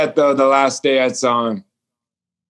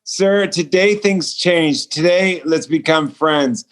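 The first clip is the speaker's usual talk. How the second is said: firm, slow, insistent; rising boldness; 2 semitones higher than usual. Retold or imitated. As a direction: plant your feet and insist on the change. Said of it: "something rose within me".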